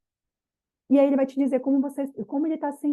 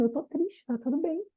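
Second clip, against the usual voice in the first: gentle self-permission; 4 semitones higher, 5 dB quieter than usual. Shown as a demonstration. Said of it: "chore e diz assim".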